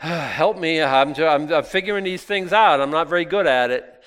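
put-on loud, pleading child's apology; pleading kid. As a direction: beg like a sorry kid figuring it out. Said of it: "And they say".

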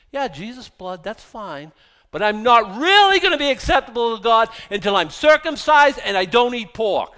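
mocking legalist voice, rising into a loud outburst.

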